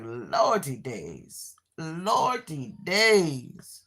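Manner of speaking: slow, drawn-out weary sigh of words; exasperated lordy. Retold or imitated. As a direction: stretch it out like you're fed up. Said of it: "I'm like".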